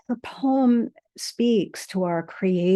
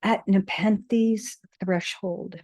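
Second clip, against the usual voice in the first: poem reading. Acted. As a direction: let each line land, unhurried. Reads a poem aloud.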